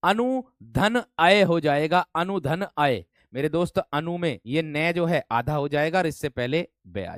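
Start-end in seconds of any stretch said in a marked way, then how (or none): 0.0-2.0 "अनु धन अय" said slowly, each part set apart; slow split. Shown as a demonstration. Teacher splitting the word for students, slow and deliberate. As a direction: break "अनु धन अय" into parts at a slow pace. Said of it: "अनु वय की बात करूं मेरे दोस्त तो क्या हो जाएगा?".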